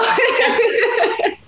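squeaky amused giggle; high burst of laughter. Real, not acted. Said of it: "What, Chicago?".

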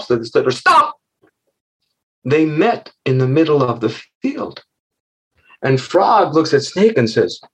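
put-on lively, rhythmic children's storyteller; storytelling. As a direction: tell it playfully, bouncing through hops and slithers. Tells the story.

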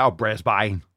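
mock Australian accent, Brisbane said "Brizbye". Host mimics an Australian viewer in a mock Aussie accent. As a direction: tease in a hammed-up Aussie accent. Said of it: "it's from Australia, so it might be like".

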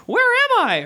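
put-on high-pitched rasp of a waking boy; raspy. A narrator's reading. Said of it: "rasped Davy".

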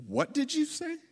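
high, indignant question without shouting; affronted mom. Retold or imitated. Mom to rude teenager, high affronted disbelief. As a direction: imitate a mother's offended disbelief.

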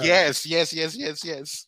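high, loud burst of yeses; rapid-fire delighted confirmation; excited agreement. Real, not acted. Friend remembering where they met, excited.

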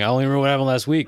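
fast quoting. Retold or imitated. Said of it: "Just like you're saying".

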